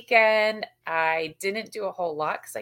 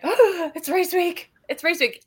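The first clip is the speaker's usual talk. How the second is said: excited gasp; 10 semitones higher than usual. Retold or imitated. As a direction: gasp it out thrilled.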